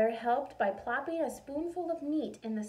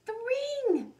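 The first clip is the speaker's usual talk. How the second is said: mild mock scream; 13 semitones higher, 8 dB louder than usual. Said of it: "she screamed".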